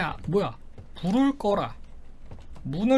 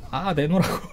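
laughing demand; 5 semitones lower than usual. Real, not acted.

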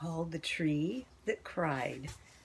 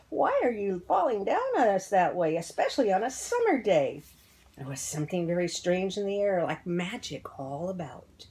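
animated read-aloud with lilting emphasis; children's story narration. A narrator's reading. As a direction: read it like a picture book to children.

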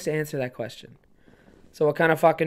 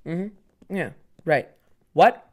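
mock sassy teacher; much slower than usual. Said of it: "and he went".

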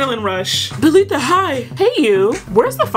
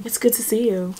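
British accent; 4 dB quieter than usual. Shown as a demonstration. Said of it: "he's British".

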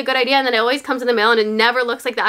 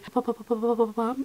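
imitated popping; 2 semitones lower, 9 dB quieter than usual. Imitates sponge expanding in water.

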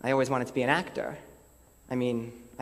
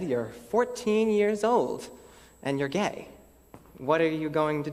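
confronting himself; 4 semitones higher than usual. Retold or imitated. Quotes himself facing the mirror.

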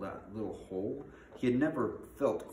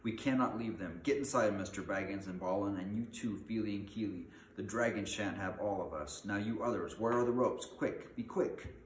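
commanding story leader, rising in urgency; acted brisk command; urgent orders. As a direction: take charge and hurry everyone along. Thorin orders the dwarves during danger.

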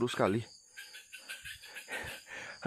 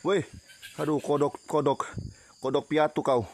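startled. Real, not acted. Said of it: "bikin kaget suara aja".

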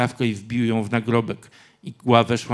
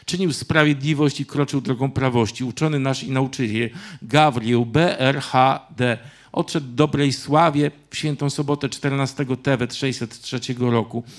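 raised, formal epitaph reading; inscription read aloud; 4 dB louder than usual. A narrator's reading. Grandfather continuing to read the tombstone, declaiming. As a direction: declaim the carved words steadily. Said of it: "kontynuował czytanie".

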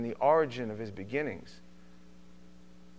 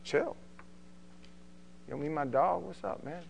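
loosely tossed-off mock street talk; white Boca Raton kid; 6 dB quieter than usual. White kid from Boca Raton, imitated street talk. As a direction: imitate a suburban kid playing cool. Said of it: "you meet a white kid from Boca Raton".

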